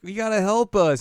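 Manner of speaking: put-on high, loud childish plea; high-pitched mock kid begging for help. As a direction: squeak it out like a pleading kid. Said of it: "these children are like".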